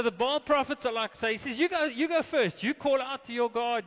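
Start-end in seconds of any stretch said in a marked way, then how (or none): 1.6-3.8 challenge. Retold or imitated. Elijah challenging the Baal prophets.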